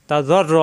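জ্বর র with a thick, rounded r; heavy র. Shown as a demonstration. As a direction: roll the doubled র, full and heavy. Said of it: "র মোটা হবে". (র মোটা করে জ্বর র)

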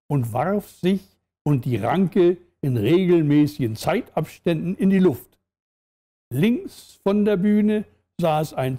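measured storyteller reading; story narration. A narrator's reading. Narrator sets a dance-hall scene for listeners, measured story narration. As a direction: read it out with clear pauses between phrases.

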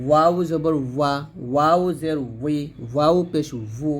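ওয়া, উই, ভু with w made from rounded lips. Shown as a demonstration. Teacher drills learners on waw, lips rounded. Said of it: "দুই ঠোঁট গোল করে".

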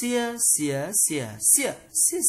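"Xia, xía, xỉa, xỉa, xỉa" through the tones, high level first; high, rising, dipping, falling takes of "Xia, xía, xỉa, xỉa, xỉa"; tone drill. Shown as a demonstration. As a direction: recite "Xia, xía, xỉa, xỉa, xỉa" changing only the pitch contour. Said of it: "phần luyện tập về thanh điệu".

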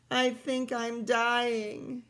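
slow, mock-pained groan. George groaning in pain during the war, slow mock moan. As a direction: moan it like a man in toothache. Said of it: "he held his jaw and groaned".

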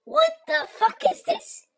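high, indignant outburst; mock the grumpy husband, voice jumping up; husband's angry complaint. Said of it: "he goes".

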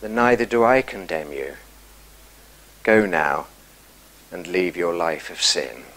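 soft, low, tender pardon; Jesus gently forgiving the woman; gentle. A narrator's reading. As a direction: release her kindly and quietly. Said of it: "the gentleness with which he says that".

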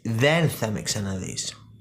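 «Δεν θα με ξαναδείς» drawn out slowly and quietly; slow, quiet delivery of «Δεν θα με ξαναδείς»; slow and soft. Shown as a demonstration. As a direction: stretch every word of «Δεν θα με ξαναδείς», hushed. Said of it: "Έτσι".

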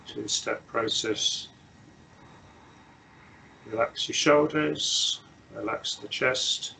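unhurried meditation guidance with long silences; measured instructions, leaving long pauses to settle; guided meditation. Real, not acted. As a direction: guide them gently into stillness, phrase by phrase.

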